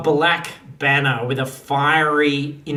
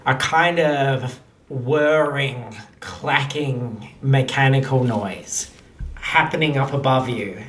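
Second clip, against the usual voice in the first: measured narration with dramatic pauses; game master's scene setting. Acted. Game master describing airships arriving over the wedding, suspenseful narration. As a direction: unveil it piece by piece, deliberately.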